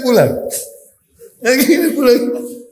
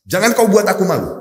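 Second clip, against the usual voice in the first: stern warning; 5 semitones higher, 3 dB louder than usual. Retold or imitated. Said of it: "Istrinya ini pesan sama Jabir".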